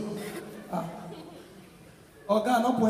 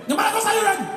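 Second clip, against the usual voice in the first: pastor impression; 8 semitones higher, much faster than usual. Pastor again.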